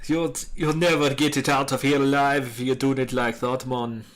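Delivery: mock Jamaican accent. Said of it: "soon this kid will be Jamaican".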